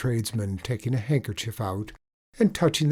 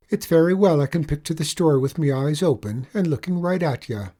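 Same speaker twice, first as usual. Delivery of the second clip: a hint of a gruff, stubborn tradesman, a bit higher; lightly voiced Irish tradesman; 6 semitones higher, 6 dB louder, faster than usual. Tradesman answering the leprechaun, lightly voiced, a bit higher. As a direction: push back, half amused.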